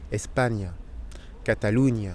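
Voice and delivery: "España, Cataluña" with a palatal ny for the ñ; Spanish ñ demo. Shown as a demonstration. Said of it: "Donc on le prononce gne".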